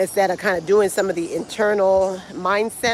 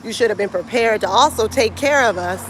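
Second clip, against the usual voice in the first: indignant protest; 2 semitones higher than usual. Retold or imitated. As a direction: voice an aggrieved tourist complaint. Voicing stranded tourists protesting to resort.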